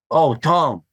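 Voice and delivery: a hint of imitating a complaining board seller; Donald Takayama impression. Board maker sighing at Tom over delamination, lightly imitated complaint. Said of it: "Donald would say".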